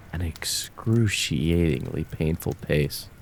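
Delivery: slow, breathy threatening whisper; menacing whisper. Acted. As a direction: whisper it like savoring his pain. Savoring the threat of death.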